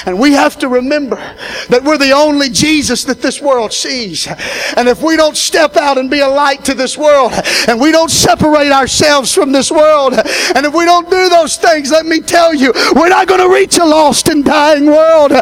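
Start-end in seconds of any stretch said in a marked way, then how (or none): 4.8-15.3 climbing preacher's call, rising to a shout; preaching. Real, not acted. Pastor challenging his congregation, preaching at full force. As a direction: build it up and let it ring out.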